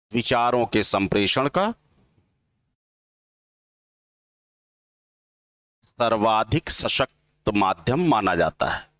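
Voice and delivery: slow, word-by-word dictation pace; dictating slowly. Shown as a demonstration. Teacher dictating a definition to students, slow and deliberate. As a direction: spell it out slowly so students can write. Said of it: "एक line लिखिए".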